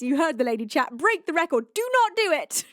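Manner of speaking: building from firm to a loud, high mock command; hammed-up scolding that climbs; mock stern order. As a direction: bark it like a teacher losing patience. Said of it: "Carumbras says".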